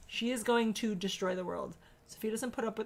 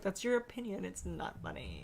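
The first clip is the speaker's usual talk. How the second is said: deadpan put-down; 7 dB quieter than usual. Retold or imitated. Mother deadpans her reply.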